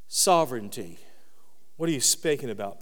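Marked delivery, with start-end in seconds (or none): 0.1-1.0 breathy whispered word; a hushed sovereignty. Acted. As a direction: let it out on a hush. Pastor whispers key word.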